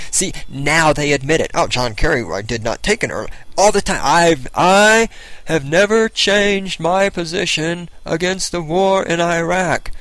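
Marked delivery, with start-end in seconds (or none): 1.5-9.9 mocking Kerry.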